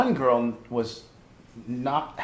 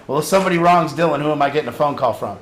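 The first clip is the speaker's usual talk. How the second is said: laughing while talking; 2 semitones higher, 7 dB louder, faster than usual. Real, not acted. Laughing at the story.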